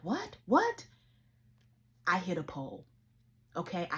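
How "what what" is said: high rising dazed questions; very high startled what; confused waking. Retold or imitated. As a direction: come to in shock, baffled. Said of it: "I'm waking up like".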